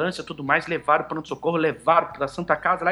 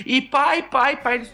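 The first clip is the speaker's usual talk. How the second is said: retold child's cry; 6 semitones higher, much slower than usual. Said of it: "meu filho começou a gritar".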